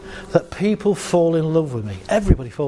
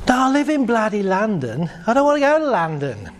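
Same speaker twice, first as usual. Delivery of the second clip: higher, frustrated protest; insist, getting fed up; exasperated driver; 7 semitones higher than usual. Acted. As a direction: driver growing cross with the car. Driver arguing with car.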